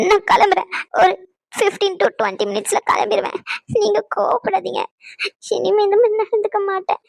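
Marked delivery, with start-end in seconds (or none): 0.1-0.7 crying while saying it; tearful. Acted. Wife to angry husband, tearful. 5.6-7.0 crying apology; tearful promise. Acted. Wife promising husband, crying.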